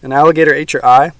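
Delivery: loud, stunned question; boy stunned by the gator story; shocked. Acted. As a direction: gasp it out in disbelief.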